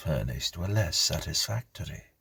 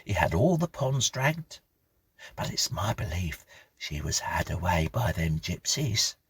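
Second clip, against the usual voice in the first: lightly voiced country housekeeper, higher; gossiping old housekeeper; 4 semitones higher than usual. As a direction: spin the tale like a chatty old servant. Mrs Bunch tells story.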